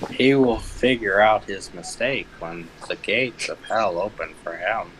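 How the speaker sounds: slow, grave mock sermon; slow ominous preacher. Mocking a preacher, slow grave doom.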